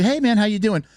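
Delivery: imitated high hello to a stranger; tentative greeting. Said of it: "A little bit like I'm a stranger".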